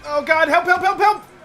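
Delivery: high panicked screams for help; screaming in fear. Real, not acted. Character grabbed in game.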